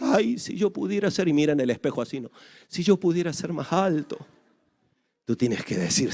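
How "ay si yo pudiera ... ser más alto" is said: softer, longing mirror-gazing voice; mock wistful sigh. Wistful short person at mirror. (suspiro nostálgico, suave, ante el espejo)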